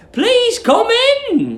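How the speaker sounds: high, sweet, welcoming call; pleasant landlady. Acted. Landlady welcoming Billy at the door, high sweet voice. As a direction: invite him in sweetly. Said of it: "she said pleasantly".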